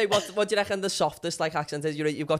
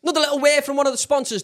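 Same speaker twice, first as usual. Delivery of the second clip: loud, high hyped-up ad patter; sponsor read; 11 semitones higher, 9 dB louder than usual. Acted. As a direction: launch the sponsor plug at full, jokey volume. Reads the sponsor spot.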